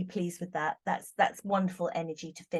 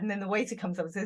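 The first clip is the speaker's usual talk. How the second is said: normal talking voice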